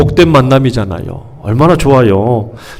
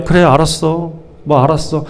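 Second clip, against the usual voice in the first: softly brushing someone off; feigned sympathy; 5 dB quieter than usual. Acted. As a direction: pretend to listen, eager to get away. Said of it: "위로해주는 척만 하는 거죠". (건성으로 위로하는 척)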